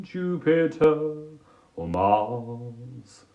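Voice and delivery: slow, lightly crooned impression of a singer; a hint of a singer's croon, slow. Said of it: "I'll do it in a singer's voice".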